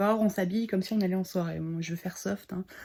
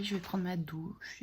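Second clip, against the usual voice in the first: whispering; 6 dB quieter, slower than usual. Real, not acted. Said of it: "whispered aside".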